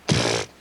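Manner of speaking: low dismissive pfft; jock scoff. Retold or imitated. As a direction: scoff with air. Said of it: "that one sound they have to make".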